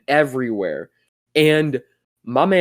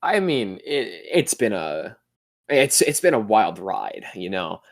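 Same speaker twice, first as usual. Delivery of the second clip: lightly put-on nineties skater ad voice; a hint of a cheesy teen ad narrator; skater kid commercial voice. Friend puts on his cheesy ad voice, lightly put on. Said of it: "I just really hate that voice".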